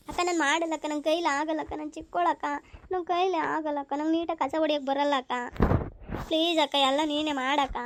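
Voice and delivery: acted crying whine, endings stretched out; tearful whining. Younger sister begs elder to do the chores, tearful whining. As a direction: plead like a tearful little sister. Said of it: "ಅಳಕ್ ಮಾತ್ರ ಆಗ್ತೈತಲ್ವೇ".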